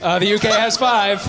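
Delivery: slow, loud, high showman introduction; grand quiz show announcement; drawn-out announcer. Acted. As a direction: stretch the name out like a game show host. Host announces scores grandly.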